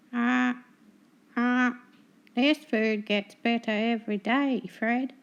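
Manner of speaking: high, loud gloating gull voice; cackling seagull. Acted. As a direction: crow over the beaten keeper. Seagull gloating over food.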